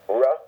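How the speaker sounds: "ra" as a short ruh; isolated R sound. Shown as a demonstration. Teacher isolating resh's sound, a short ra. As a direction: sound out "ra" as one R syllable. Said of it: "trying to get you the R sound".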